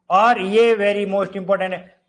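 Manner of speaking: very most important drawn out slowly, very stressed; emphatic warning. Shown as a demonstration. Teacher flags an exam point, slow and emphatic. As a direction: stretch every word of very most important. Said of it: "teacher flags key item".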